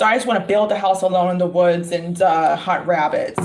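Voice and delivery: mildly deadpan imitation of a boy; imitated matter-of-fact kid; dead serious. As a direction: say it straight and level, no joke. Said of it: "he said it dead serious".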